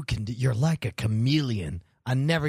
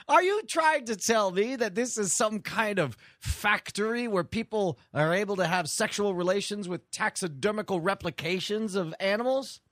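a put-on British accent, pitched up; playing posh with a fake British accent; 6 semitones higher than usual. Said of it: "You're doing it again".

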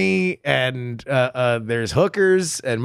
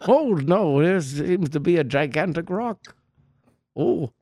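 polite dinosaur voice. Pretend. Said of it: "Very polite Martian dinosaurs".

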